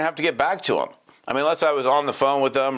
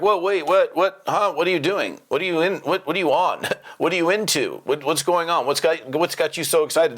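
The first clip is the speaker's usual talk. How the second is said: curious surprise; 4 semitones higher than usual. Retold or imitated. Prospect reacting in surprised curiosity to an excited friend. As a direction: imitate a prospect caught off guard. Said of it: "Because people are like".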